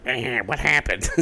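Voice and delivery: slow, puzzled mock voice; a bewildered shrug of a voice; confused Scooter Braun. Mocking Scooter Braun's confusion, slow and puzzled. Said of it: "poor old Scooter Braun's like".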